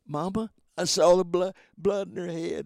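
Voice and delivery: put-on loud, high insisting child; upset child. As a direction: blurt it out, upset.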